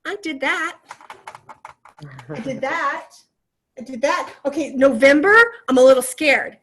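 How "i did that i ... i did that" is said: proud self-affirmation. Retold or imitated. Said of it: "I look and I go".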